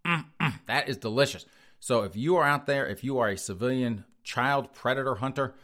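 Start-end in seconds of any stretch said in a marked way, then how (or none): 0.1-1.5 savoring mm with a higher, relishing voice; lecherous teacher. Retold or imitated. Imitating a teacher to mock predators, lightly savoring. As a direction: drool over them like a creepy teacher. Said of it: "boys and go".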